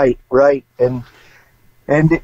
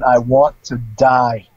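fighting back tears as he says it; emotional, choked up; 5 semitones lower than usual. Real, not acted. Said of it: "forgive me for getting emotional".

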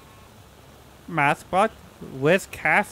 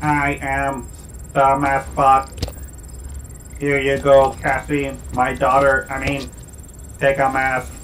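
deep villain voice; 7 semitones lower than usual. Pretend. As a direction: play a creepy low villain. Voices game villain, low.

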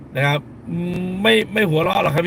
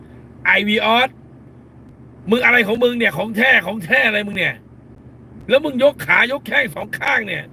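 scolding; 4 semitones higher than usual. Retold or imitated. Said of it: "ผมโทรไปอบรมมัน".

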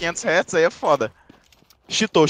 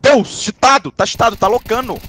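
outraged; 4 semitones higher, 5 dB louder than usual. Real, not acted. Outraged at a cheater.

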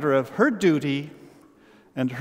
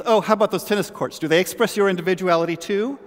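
quick, mock-innocent sarcastic jab; dripping sarcasm; 2 semitones higher, faster than usual. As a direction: needle him with a fast, sweetly sarcastic question. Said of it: "just dripping with sarcasm".

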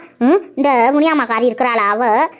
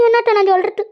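high, tearful sigh of helplessness; acted tearful complaint; weepy lament; 5 semitones higher than usual. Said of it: "ஏன்டா அழுவுற".

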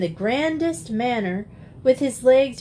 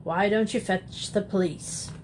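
sulky burglar. Acted. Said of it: "scowled and shuffled".

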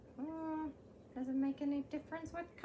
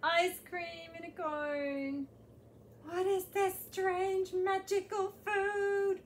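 awed; 4 semitones higher, slower than usual. Acted. Caterpillar marvels at ice cream.

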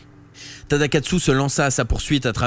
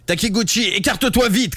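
raised, higher urgent yell of warning; shouting a warning to his teammate; 9 semitones higher than usual. Acted. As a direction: bark the warning so he moves now. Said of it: "cria Tadakatsu".

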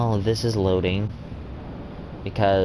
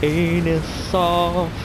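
"Anus off" high and stretched; high drawn-out; 7 semitones higher, much slower than usual. Shown as a demonstration. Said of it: "He's gonna eat my anus off".

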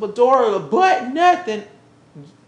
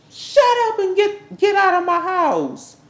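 angry order out; 4 semitones higher than usual. Acted. Ordering him out.

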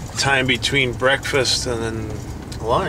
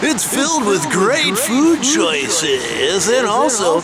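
game show host; 3 semitones higher than usual. Acted. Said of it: "in my, uh, game show voice".

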